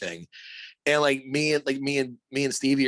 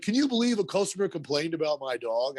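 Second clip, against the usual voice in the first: higher-pitched mock disbelief; lightly voiced dog owner; 4 semitones higher than usual. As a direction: lightly imitate an owner griping about a customer. Voicing the dog's owner complaining.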